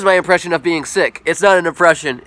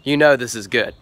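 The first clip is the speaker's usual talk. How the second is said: impression of Josh. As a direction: brag like a smug trick-shot pro who finds it all too easy. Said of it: "Here's my impression of Josh".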